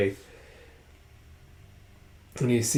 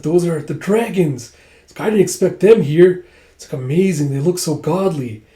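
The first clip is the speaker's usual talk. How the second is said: higher, excited onlooker; mock awe; 4 semitones higher, 5 dB louder than usual. Recruits marvel at the dragon warriors, excited awe. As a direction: gush a little in admiration.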